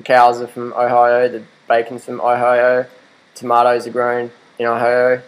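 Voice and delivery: Ohio said as aihaio in a broad Australian accent; Aussie Ohio. Real, not acted. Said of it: "excuse your Aussie accent".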